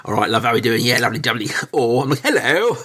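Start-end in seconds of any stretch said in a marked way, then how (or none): 0.0-1.5 lightly put-on Cockney chat; Cockney accent. English speaker greeting someone abroad, in a mock Cockney accent. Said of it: "my dad was a Cockney, so I can slip that way". 2.2-2.8 high-pitched, hammed-up posh English; very posh English accent. Englishman introducing himself abroad, in a mock very posh accent. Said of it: "Either very posh".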